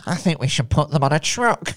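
mocking copy of a creepy American voice; creepy voice mimicry. Host mimicking the co-host's creepy businessman, mock creepy. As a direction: lightly imitate the creepy pitch. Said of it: "That's your sex offender voice".

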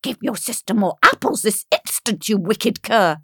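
mildly harsh stepmother order; angry scolding. Acted. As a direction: scold her as a wicked stepmother. Stepmother shakes girl, scolding.

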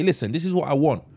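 mock confession shouted. Girlfriend telling her boyfriend what she wants, shouted. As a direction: bellow it out like a bold confession. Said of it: "put it all on the table and say".

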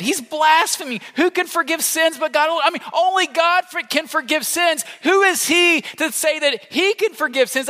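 a hint of scandalised scribes; indignant religious leaders. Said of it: "they were just thinking this".

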